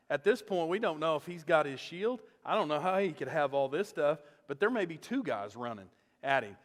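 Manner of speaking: ordinary delivery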